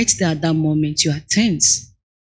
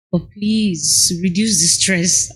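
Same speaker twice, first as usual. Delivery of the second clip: slow prayerful plea; slower than usual. Shown as a demonstration. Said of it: "I do say that most times".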